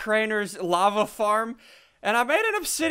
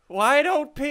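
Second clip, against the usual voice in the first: playful protest, faking hurt; mock upset; 3 semitones higher than usual. Host complaining to viewers as a joke, mock upset. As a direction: pretend to be wounded by it. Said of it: "I'm kidding".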